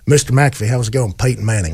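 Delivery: lightly voiced polite gentleman. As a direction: greet them smoothly like a gentleman. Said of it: "like a gentleman".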